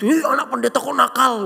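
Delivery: retold teasing call-out; mocking schoolmates. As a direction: jeer like a classmate picking on someone. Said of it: "teman-teman Kenny suka ngolong-ngolokin Kenny".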